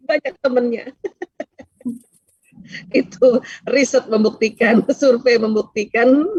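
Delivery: chuckling, slowed, while reassuring; laughing through words. Real, not acted. Laughing as she reassures a worried mother. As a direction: talks through real laughter.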